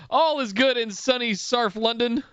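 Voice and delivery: attempted Cockney on "Sarf London"; Cockney accent. Reading a London listener's message in mock Cockney. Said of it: "Cockney accent".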